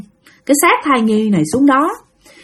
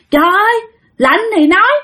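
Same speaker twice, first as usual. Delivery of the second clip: high-pitched exclaiming spirit; possessed aunt's spirit voice; 10 semitones higher than usual. Acted. Spirit in aunt answers the cold child, high voice. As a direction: cut in with a high, reproving spirit voice. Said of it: "là vong của anh Nam nhập vô".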